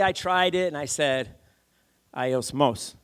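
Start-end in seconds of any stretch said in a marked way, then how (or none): 2.1-2.9 "Aiosmos" with the weight on the final "mos"; stress on last syllable. Retold or imitated. Preacher trying the word for his Greek-speaking friend, "Aiosmos" stressed at the end. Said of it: "The emphasis is on the last syllable".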